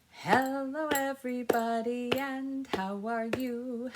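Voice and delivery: sing-song hello to the class; greeting the children. Shown as a demonstration.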